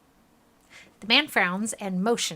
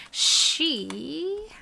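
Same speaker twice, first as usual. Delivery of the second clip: whisper; 7 semitones higher than usual. Real, not acted. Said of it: "I don't wanna do any spoilers".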